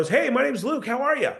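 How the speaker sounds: high, lilting "How are ya?"; unsure upward sales greeting, voice riding high; upward tonality. Shown as a demonstration. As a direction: pitch "Hey, my name's Luke" up high. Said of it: "That's an upward tonality".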